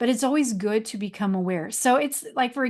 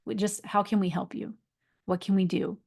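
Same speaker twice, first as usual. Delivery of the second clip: reassuring friends; 4 dB quieter than usual. Retold or imitated. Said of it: "the true friends are gonna be like".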